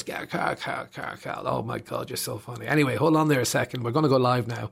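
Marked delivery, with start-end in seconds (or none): 0.0-2.7 host cracking up. Retold or imitated. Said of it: "and he goes".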